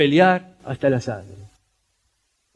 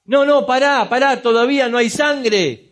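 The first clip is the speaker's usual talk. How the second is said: shouted refusal; 5 semitones higher than usual. Retold or imitated. Helper refuses towel, shouting.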